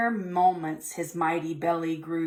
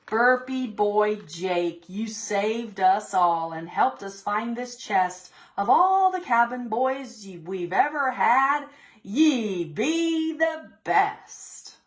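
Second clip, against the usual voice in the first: louder, slow hearty pirate praise; proud pirate captain; 3 semitones higher, 4 dB louder, slower than usual. Acted. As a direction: boom it out with pride.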